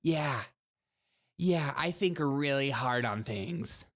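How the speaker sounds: slow, smug mock pondering; mock self-important thinker. Host mocks people who call themselves thinkers, slow and self-important. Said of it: "I hate when people call themselves thinkers".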